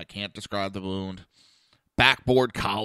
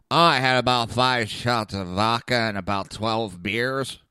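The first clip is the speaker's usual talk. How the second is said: put-on slow, loud, lightly slurred drunk guy; drunk patient voice; 5 dB louder than usual. The drunk patient answering the EMT, slow and loud. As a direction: play the drunk patient bragging about drinks.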